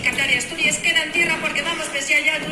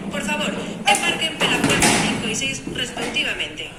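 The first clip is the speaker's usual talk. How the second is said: PA boarding call over speakers; airport announcement. Acted. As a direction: announce it like a tannoy.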